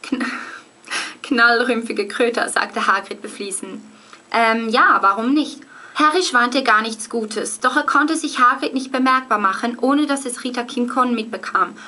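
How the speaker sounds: reading aloud in German High German; brisk storytelling in German standard German; German High German accent. Shown as a demonstration. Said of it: "I'll read it in German first".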